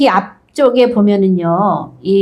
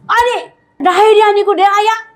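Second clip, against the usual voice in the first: high, startled cry of disbelief; mock shock, voice jumping up high; shocked discovery; 11 semitones higher than usual. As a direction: gasp it out as if waking to the wrong bride. Jacob discovers Leah.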